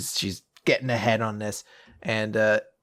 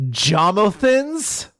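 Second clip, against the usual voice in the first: baffled; 6 semitones higher, 3 dB louder, much slower than usual. Real, not acted. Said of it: "What the f-?".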